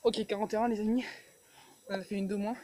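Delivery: loud and winded between reps; doing push ups. Real, not acted. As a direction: call out the count after the push-ups. Counting reps after push-ups.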